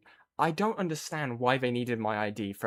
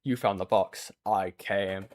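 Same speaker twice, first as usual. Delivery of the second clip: lower, slow, menacing horror-villain voice; Pinhead; 3 semitones lower, slower than usual. Retold or imitated. Quoting the horror villain line, low menacing voice. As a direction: lightly play the Hellraiser demon. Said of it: "it was like Pinhead".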